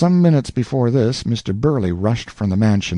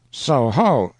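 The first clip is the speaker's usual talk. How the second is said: exclaiming; 4 semitones higher than usual. Acted. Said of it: "exclaimed Aunt Susan".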